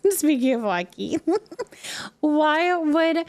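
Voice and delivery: breathy whispered aside, unvoiced. Real, not acted. Streamer whispers to chat about hockey fears, whispering. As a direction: hush it like a guilty confession.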